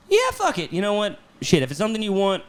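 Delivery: high-pitched, throwing caution aside; sudden giving in. Retold or imitated. Husband agreeing to try for a baby, sudden giving in.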